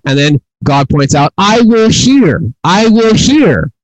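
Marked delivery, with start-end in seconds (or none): 1.4-2.4 high, slow, emphatic mock yell; God yelling. Preacher voicing God yelling at us, high mock yell. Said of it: "So God is yelling at us". 2.6-3.7 high, slow, emphatic mock yell; God yelling. Preacher voicing God yelling at us, high mock yell. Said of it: "So God is yelling at us".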